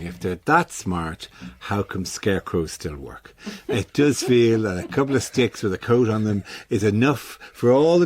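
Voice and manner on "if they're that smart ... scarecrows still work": lightly voiced nagging doubt, lower and slow; a slow, quiet hint of an inner sceptic; tiny inner voice. Host voices the doubt in his head, a lightly played inner voice. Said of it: "a tiny voice in my head".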